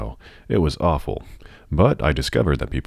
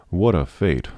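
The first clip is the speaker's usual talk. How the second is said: mocking exclaim; 5 semitones higher than usual. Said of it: "Martha exclaimed".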